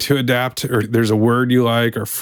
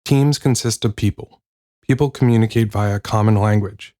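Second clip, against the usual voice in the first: measured reading of a chapter; audiobook narration. Acted. Host reads the chapter on vernacular to listeners, audiobook narration. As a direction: read it out as a book, sentence by sentence.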